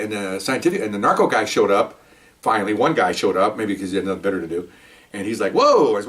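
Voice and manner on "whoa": high mock "whoa"; retold amazement. Narco guy reacts to the PCP can, retold amazement. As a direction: imitate a wowed reaction, pitched up.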